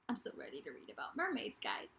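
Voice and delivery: eager little whisper. Real, not acted. Whispering her excitement to viewers about mermaid books. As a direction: whisper it fast like a secret.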